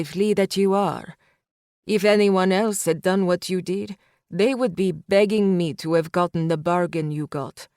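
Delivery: put-on calm mob threat to a young woman; menacing man. Tomas lectures Ruby coldly.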